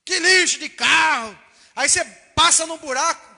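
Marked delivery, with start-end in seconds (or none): 0.0-1.4 grumbling at the car. Retold or imitated. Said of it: "você começa a falar assim".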